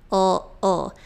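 "O" as a brief ul sound; isolated dark L. Shown as a demonstration. Teacher repeating the sound of letter L, dark l. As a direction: make "O" a dark l, tongue tip up. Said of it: "Da letra L".

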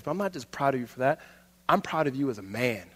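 low, soft and sincere; hushed, earnest praise between men; heartfelt affection. Acted. Football legend tells younger player he is proud, heartfelt. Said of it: "and then he starts crying".

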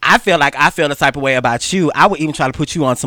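heated. Real, not acted. Heated, louder retelling.

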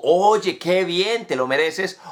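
sincere, pleased congratulation; affirming tone. Shown as a demonstration. Teacher demos praise in an affirming tone. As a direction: tell a friend they earned it, warmly. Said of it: "en un tono afirmativo".

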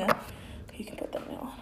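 real whisper, off to the side; whispered aside. Real, not acted. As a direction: hush it so the mic barely catches it. Aside while recording.

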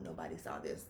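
very low, quiet aside; secretive, dropped voice; hushed worry. Retold or imitated. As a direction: mutter it to yourself, hoping to go unnoticed. Embarrassed inner thought on getting up.

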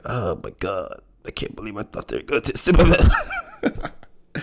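high, slow whiny fan voice; mock heartbroken fan. Voicing a crushed fan in a meme, mock whine.

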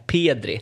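"Pedri" with a closed long e, Peedri. Shown as a demonstration. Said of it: "mer åt det hållet än".

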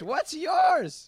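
shouted question. Real, not acted. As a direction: call it out so he can't ignore it. Repeats question to Joey.

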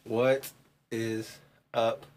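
put-on a light Russell Brand accent, slowing at the end; a mock Russell Brand greeting.

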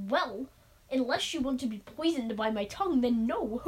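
lightly put-on comic accent; amateur silly accent; Mister Gorf. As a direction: attempt a funny creature accent. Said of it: "he has this hilarious accent".

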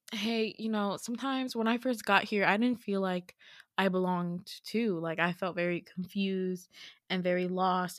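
mild, earnest reassurance; gently reassure, as an understated imitation; Jeffrey comforting. He comforts the upset newcomer, mildly reassuring voice. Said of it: "Jeffrey starts to comfort me".

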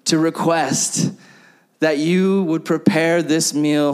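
slow, solemn King James delivery; mock formal prayer to wife. Speaker addressing wife Brooklyn in slow solemn prayer-speak. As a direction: pretend to beseech your wife like royalty. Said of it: "weird religious words with her".

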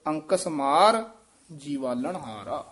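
rest on ਮਾਰ before going on; pause demo. Shown as a demonstration. Teacher shows the student where to pause, phrased recitation. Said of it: "ਅੰਕਸ ਮਾਰ ਇੱਥੇ ਵਿਸਰਾਮ ਹੈ".

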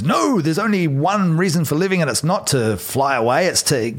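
mock-lecturing as the narrow-minded flock; the flock's voice. Retelling the flock scolding Jonathan, lightly voiced lecture. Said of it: "the flock holds him down, says".

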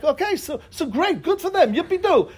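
high, mock-cheerful "yippee-doo" with a laugh; sarcastic cheer. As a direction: cheer for them with a roll of the eyes. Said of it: "what does it make me feel like".

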